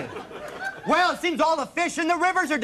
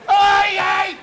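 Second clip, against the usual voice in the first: excited shout; 3 semitones higher, 7 dB louder than usual. Acted. Excited reply in scene.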